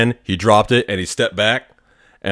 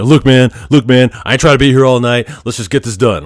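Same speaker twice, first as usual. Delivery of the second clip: hostile retort; 4 semitones higher, 4 dB louder than usual. Retold or imitated. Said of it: "he's being hostile to me".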